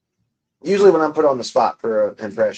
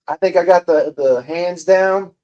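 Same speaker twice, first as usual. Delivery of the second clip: Trump impression; 4 semitones higher than usual. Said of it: "I just need the voice".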